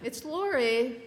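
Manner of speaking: high, slow Minnesota "It's Lori"; Minnesota mom greeting. Retold or imitated. Mother at the stove greeting her daughter, slow Minnesota drawl. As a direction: stretch it out like a mom who keeps cooking. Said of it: "She said".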